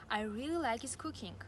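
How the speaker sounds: "his" said as "iz"; dropped H. Shown as a demonstration. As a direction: link "like his" with no H in "his". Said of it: "Here are some more examples".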